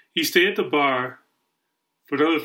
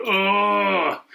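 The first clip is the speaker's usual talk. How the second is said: long, raised mock groan; imitated groan; 4 semitones higher than usual. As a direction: groan like someone coming to. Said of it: "finally you hear a groan".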